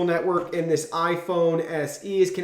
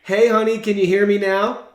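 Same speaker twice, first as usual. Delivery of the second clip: calling out; 3 semitones higher, 6 dB louder than usual. Real, not acted. Calling wife on speakerphone.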